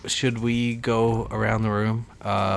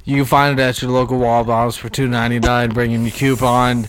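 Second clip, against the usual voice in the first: mock ad read; 4 dB louder than usual.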